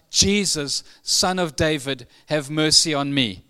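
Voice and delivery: mild cry out. Acted. Preacher retelling the blind man's plea to Jesus, mild cry out. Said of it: "And he cried out".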